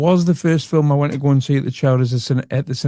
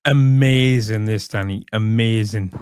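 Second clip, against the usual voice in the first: sarcastic praise; 4 semitones lower, slower than usual. Acted.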